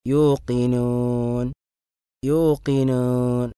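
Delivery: slow യൂഖിനൂൻ with the u sliding toward e; waw mixed with ya. Shown as a demonstration. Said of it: "യാഇനോട് സദൃശ്യമാകുന്ന ... ഉച്ചരിക്കുക".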